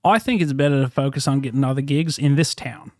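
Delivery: put-on Aussie accent, held steady; Australian accent. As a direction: fake Australian accent in character. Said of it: "continued the Australian accent for two hours".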